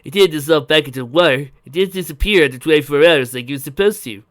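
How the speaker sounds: loud, energetic inventor's explanation; exulting. A narrator's reading. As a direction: boast excitedly about the discovery. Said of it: "he exulted".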